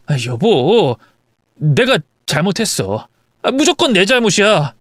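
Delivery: pleading husband. Acted. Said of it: "무릎을 꿇고 파리처럼 싹싹 빌기".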